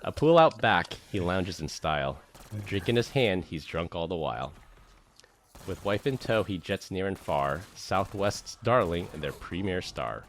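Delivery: rhythmic, punchy poem reading; roast poem recital. Acted. Friend reading a roast poem to Glenn, rhythmic recital. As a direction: recite each couplet with comic swing.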